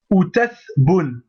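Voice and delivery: outath boun drawn out, syllable by syllable; slow syllable drill. Shown as a demonstration. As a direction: outath boun stretched slowly for the class. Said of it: "Donc on va dire". (outath boun très lentement, syllabe par syllabe)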